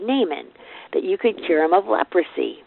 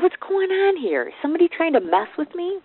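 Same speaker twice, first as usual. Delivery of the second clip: indignant confusion; 9 semitones higher than usual. Acted. Voicing our confused frustration.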